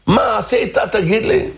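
high, angry demand; angry confrontation. Retold or imitated. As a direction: confront the jealous neighbour. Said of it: "מיד ההוא התעצבן". (שכן כועס דורש תשובה)

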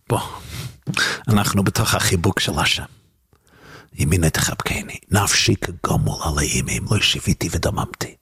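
low, hushed invitation into an embrace; soothing divine soul. Acted. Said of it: "נפש אלוקית אומר".

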